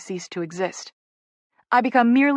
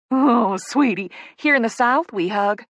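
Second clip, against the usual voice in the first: gushing Southerner; 3 semitones higher, 4 dB louder than usual. Acted. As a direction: playfully correct a newcomer in a Southern accent. Voices the Southern woman Poppy.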